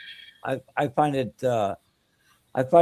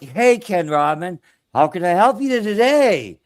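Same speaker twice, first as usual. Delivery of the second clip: higher, louder, lilting mock Belgian chatbot; a hint of a Belgian accent, sing-song lift; 5 semitones higher, 5 dB louder than usual. Man mocks the Belgian-sounding chatbot voice, lilting and higher. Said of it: "sounded like he is from Belgium".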